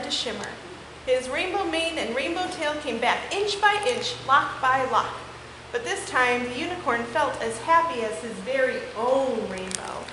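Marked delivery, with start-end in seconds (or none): 4.2-10.1 lively, expressive picture-book read-aloud; story reading for children. Acted. Teacher reading a unicorn book to her class, animated. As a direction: read it to the kids with wide swings in tone.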